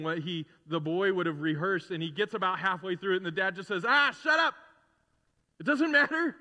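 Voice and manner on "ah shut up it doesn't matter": much higher, louder, brushing the apology aside; joyful father cutting in. Retold or imitated. Father cutting off his son's rehearsed apology, higher and louder with joy.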